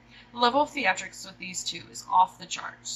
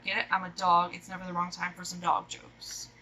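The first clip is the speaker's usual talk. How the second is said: ordinary talk, nothing marked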